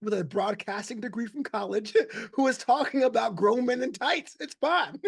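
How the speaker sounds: mock-sheepish admission, laughing through it. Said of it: "with a little bit of sheepishness".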